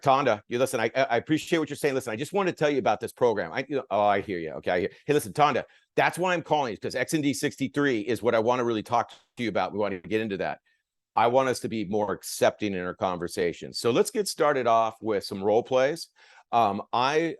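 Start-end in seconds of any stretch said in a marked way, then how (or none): 0.0-3.5 hurried, talking over the client; rushed pitch. Shown as a demonstration. Trainer rushing a client to show the wrong way, hurried. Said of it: "So it's like". 3.9-13.7 unhurried, hearing the client out; accepting tone. Shown as a demonstration. Trainer modelling an accepting reply to the client, unhurried. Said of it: "So it's like".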